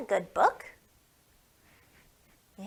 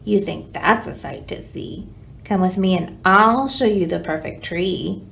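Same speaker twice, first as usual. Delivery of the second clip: nosy squirrel; 5 semitones lower than usual. Acted. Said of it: "said a nosy squirrel".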